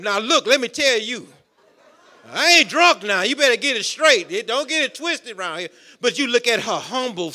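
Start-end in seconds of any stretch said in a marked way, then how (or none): 0.0-5.7 mock sassy retort, a touch of attitude; sassy comeback. Preacher imagining Hannah getting sassy with Eli, mock sassy. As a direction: give him a light sassy talking-to. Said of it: "She didn't go sister on him".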